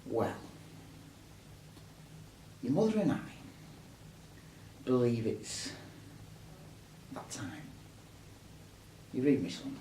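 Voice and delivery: bad acting. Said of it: "Don't worry, excuse mine".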